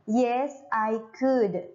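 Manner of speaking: slow model reading, "could" as "kud"; teacher's slow "could", rhyming with good; model pronunciation of could. Shown as a demonstration. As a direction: say "could" slowly with silent L, for learners. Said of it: "Seperti itu ya, bacanya bukan cold".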